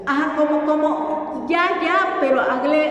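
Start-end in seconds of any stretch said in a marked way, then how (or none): 0.7-1.8 ya said slowly with a T sound before it, almost tya; slow demo of ya. Shown as a demonstration. Teacher modelling ya slowly for the student, tongue on palate. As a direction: draw out ya, touching the tongue to the palate first. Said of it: "agrégale una T antes".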